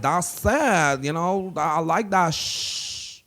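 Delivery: lightly put-on Latina accent. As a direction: imitate a Latina skit character. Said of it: "does a really good, like, Latina accent".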